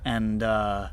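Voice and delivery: game master narration. A narrator's reading. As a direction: set the scene for the players. GM describes the cavern scene.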